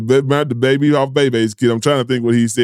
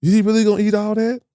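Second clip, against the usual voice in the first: mock disbelief; 8 semitones higher, faster than usual. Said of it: "I'm looking at this man like".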